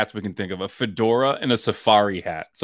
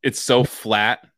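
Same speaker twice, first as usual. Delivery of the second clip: slow flat read; 2 semitones lower, much slower than usual. Shown as a demonstration. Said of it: "cadence of the lawyer".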